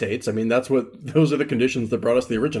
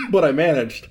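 laughing while recovering from choking; 2 semitones higher than usual. Real, not acted. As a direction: talk through giggles after a sputter. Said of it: "I just choked on my coffee".

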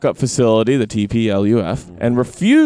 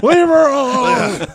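put-on higher, slow, laughing drunk yell; laughing through the line; 12 semitones higher, 3 dB louder, slower than usual. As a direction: crack up mid-line, dragging the words. Repeats the bit, laughing.

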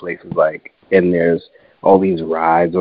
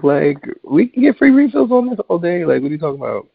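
incredulous retort; 2 semitones higher than usual. Retold or imitated. Retold argument with annoyed friends.

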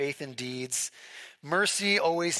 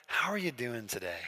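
softer, earnest greeting that truly asks; sincere greeting; 4 semitones lower, 4 dB quieter than usual. Retold or imitated. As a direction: ask it like you really want the answer. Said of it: "those really sincere people who are like".

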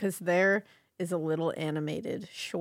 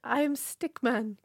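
imitating Stickman; 4 semitones higher, slower than usual. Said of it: "he always says".

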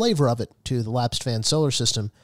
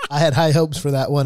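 laughing; 3 semitones higher, 5 dB louder than usual. Real, not acted.

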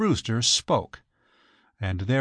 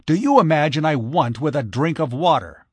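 demanding; 3 semitones higher, 5 dB louder than usual. Acted. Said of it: "demanded Mister Brewster".

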